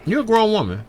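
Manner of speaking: high-pitched sassy repeat; sing-song high mock scold. Repeating teasing line to co-host.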